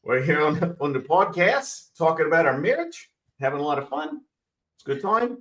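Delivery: put-on husband does his running-joke Australian accent for the podcast; mock Australian accent. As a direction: show off a jokey Australian accent on request. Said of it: "a little spin?".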